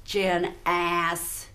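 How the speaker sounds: Janice with the last syllable stretched into a long s; syllable emphasis. Shown as a demonstration. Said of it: "the syllable".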